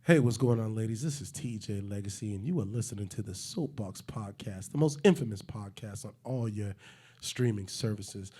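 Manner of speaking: a hint of smooth seductive host; sexy intro. Host doing a sexy intro for the ladies, lightly seductive. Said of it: "sexy intro".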